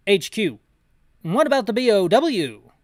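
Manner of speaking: a British officer asking over the radio. Acted. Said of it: "Gotta get my British voice back up".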